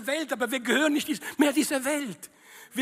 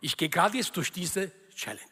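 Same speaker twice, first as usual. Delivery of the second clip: devoted believer praying; 4 semitones lower than usual. Acted. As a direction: demonstrate a lower-pitched heartfelt prayer. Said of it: "reden so mit ihrem Gott". (vorgemachtes, eindringliches Gebet in tiefer Stimme)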